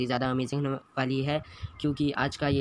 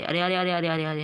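alarmed gamer; 4 semitones higher, 3 dB louder than usual. Real, not acted. Enemy rushing at him.

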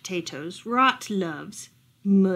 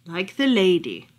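firm; 3 semitones lower, 5 dB louder than usual. Acted. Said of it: "the owl replied firmly".

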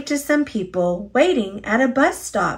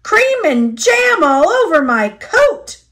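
louder, higher bitter grumble; bitter complaint; 8 semitones higher, 5 dB louder than usual. A narrator's reading. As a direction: complain bitterly about the ruined coat. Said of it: "he said bitterly".

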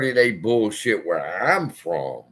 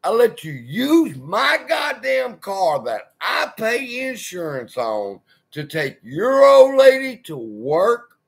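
raised, higher-pitched lecture to a freeloader; heated scolding; 7 semitones higher than usual. Retold or imitated. To the tenant who won't cut grass, heated scolding. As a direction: tear into him, voice pitched up.

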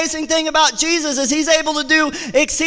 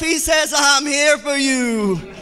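preaching at full force; 3 semitones higher than usual. Acted. Preacher at the climax to the church, fervent. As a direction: drive it home with fervor.

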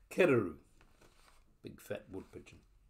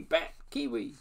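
faint whispered echo; 3 semitones higher than usual. Acted. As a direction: fade it like a distant echo. Echo of the call.

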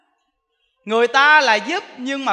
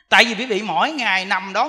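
usual speaking voice

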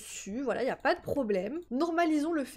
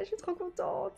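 happy tears; 7 semitones higher than usual. Real, not acted. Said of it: "Je suis trop sensible".

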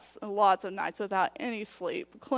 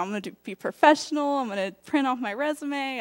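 higher-pitched eager chatter; quick, raised-pitch keenness; retold excitement; 4 semitones higher than usual. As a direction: retell your excitement in a higher voice. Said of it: "I was excited. I was all".

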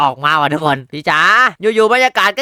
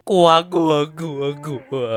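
scared whimper; 4 semitones lower, 3 dB quieter, slower than usual. Real, not acted.

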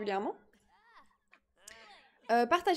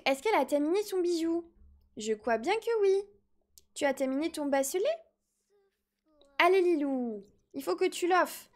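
put-on baby voice; 2 semitones higher than usual. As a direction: talk like a little toddler. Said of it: "mon gage, c'est de faire une voix de bébé".

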